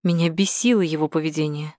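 ordinary delivery, nothing marked

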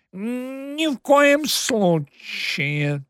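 anxious hissed prompt, drawn out; prompter's whisper. A narrator's reading. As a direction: hiss it like a stage prompter. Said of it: "тревожно свистнул по-суфлёрски над ухом". (тревожный суфлёрский шёпот)

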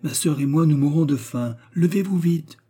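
high, loud, urgent call; shouting. A narrator's reading. Hungry George rouses James for lunch, shouting. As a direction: call down to hurry a sleeper up. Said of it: "criait George par l'écoutille".

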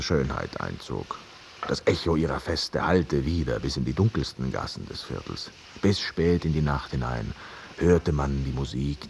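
put-on story told like an old grandfather, unhurried; storytelling in the lightly voiced manner of an old grandfather; grandfatherly storytelling. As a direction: spin the old tale for him as a grandpa would. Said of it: "erzähle wie ein alter Großvater".

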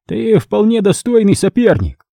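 the crime boss sneering over his wrecked chair; cardinal's voice. A narrator's reading.

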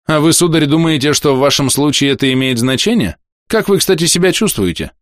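a hint of a blunt stern physician; stern doctor voice. Доктор спрашивает больного. (лёгкий голос хмурого доктора)

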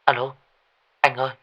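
mildly tearful, anxious plea; worried mother, lightly voiced as near tears. A narrator's reading. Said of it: "bằng một âm thanh nức nở".

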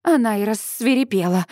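ordinary delivery

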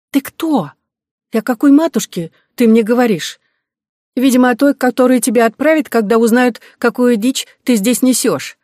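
high, loud squeaky demand. Acted. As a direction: try to sound stern in a squeak. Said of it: "в сочетании с писклявым голосом".

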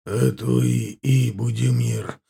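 gurgling, gasping for air. Acted. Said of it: "пробулькал Чахоточный, хватая ртом воздух".

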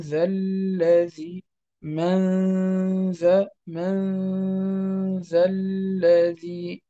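من ذا الذي with the ن held through the nose before ذ; slow nasal ghunna. Shown as a demonstration. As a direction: drag out من ذا slowly with nasal hum. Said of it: "وإنما نقول من".

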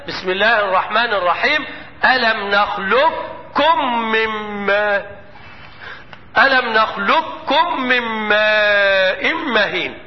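slow chanted tajwid recitation; Quran recitation. Shown as a demonstration. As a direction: chant the verse slowly, melodic. Recites the verse.

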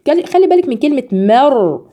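ordinary talk

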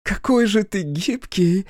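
high, slow, delighted tipsy cry; drunken exclamation. Acted. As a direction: gush over him drunkenly. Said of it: "воскликнула она".

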